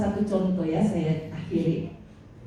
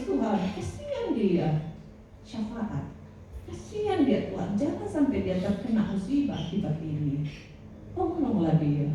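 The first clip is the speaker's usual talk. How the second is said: pleading prayer; 2 semitones higher, 4 dB quieter than usual. Acted. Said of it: "kita harus yang nangis".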